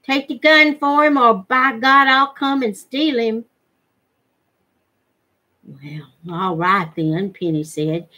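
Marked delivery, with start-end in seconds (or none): 0.0-3.5 insistent rough demand. Acted. Threat continuing the quarrel. 5.6-7.3 slow and lower, softly conceding; resigned giving in. Acted. Penny yielding to Forrester, slow resigned.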